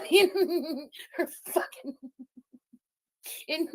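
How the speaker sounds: words broken by real laughter; laughing. Real, not acted. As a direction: laugh through it, delighted. Streamer laughing at rage clip.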